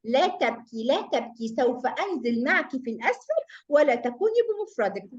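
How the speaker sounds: comforting hamza. Acted. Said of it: "قالت لها الهمزة".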